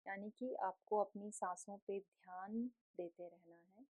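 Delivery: gentle, softened guiding voice with long pauses; guided meditation. Real, not acted. Yoga teacher settles the class into breath awareness, calm meditative guiding.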